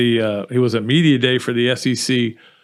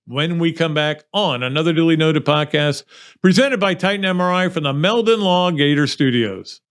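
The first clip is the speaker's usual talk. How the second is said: higher, projected broadcast tease; announcer sign-off; 3 semitones higher than usual. Real, not acted. Host sends listeners to the break, announcer style. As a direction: sell what's coming after the break.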